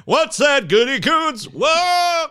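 high, playful calling out; hammed-up high whooping question; mock astonishment. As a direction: shout to him as if straining to hear. Mock calling to absent critic.

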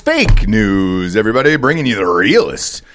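high, drawn-out hammed-up anchor intro; mock news anchor. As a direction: open the show like an overblown TV anchor. Mock news anchor opening the show.

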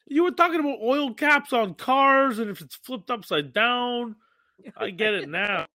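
talking while stoned. Real, not acted. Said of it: "I'm stoned".

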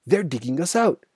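loud, high cry of alarm; alarmed shout. A narrator's reading. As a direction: shout a panicked warning to the family. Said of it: "he shouted".

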